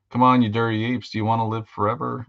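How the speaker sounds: drill sergeant shout. Retold or imitated. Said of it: "when Rico goes".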